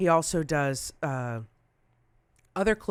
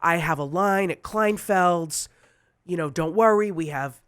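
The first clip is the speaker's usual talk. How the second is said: lightly voiced New York designer, louder; Dennis Basso; 3 semitones higher, 6 dB louder than usual. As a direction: take charge, reassuring in his voice. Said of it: "he has this raspy voice".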